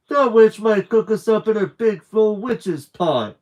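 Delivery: stomp down hard on the refusal; a boy yelling back at his brother, outraged; indignant shout. A narrator's reading. Stevie scared of the witch.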